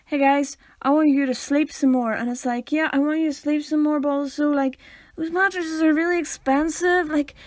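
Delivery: chummy ad read, lightly sent up; mock podcast ad pitch. Co-host imitating a mattress sponsor read, mock ad pitch. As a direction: plead casually with listeners like a reluctant advertiser. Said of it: "'Cause it's like".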